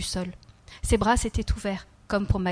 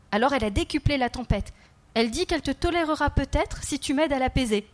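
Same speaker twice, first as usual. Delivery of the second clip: put-on lightly raised child voice, earnest; a small boy confiding, slightly higher; child's voice; 4 semitones higher than usual. The child telling the kneeling man about his dreams, lightly voiced child.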